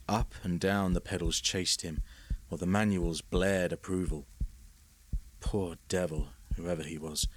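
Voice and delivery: ordinary delivery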